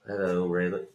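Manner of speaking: a lightly voiced Boyd greeting Raylan; Walton Goggins impression.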